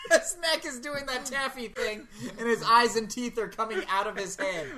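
laughing. Real, not acted. Host describes the guest, cracking up.

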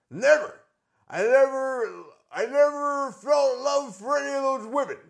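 swaggering wrestler boasting, slow and loud; cocky wrestling-promo swagger; Ric Flair impression. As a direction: brag like a cocky pro wrestler on the mic. Plays Ric Flair character.

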